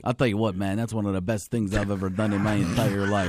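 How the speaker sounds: a pumped-up football coach; hyped coach raving about a quarterback; Jon Gruden. Retold or imitated. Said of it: "the John Gruden was great".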